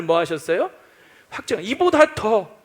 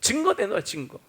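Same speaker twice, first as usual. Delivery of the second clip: demanding proof; 3 semitones higher than usual. Retold or imitated. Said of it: "못 믿겠다는 거죠".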